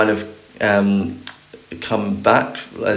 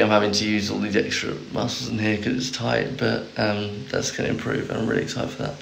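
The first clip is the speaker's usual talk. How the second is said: strained croaky voice; 5 dB quieter than usual. Real, not acted. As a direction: talk through a sore, croaky throat. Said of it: "it's pretty croaky".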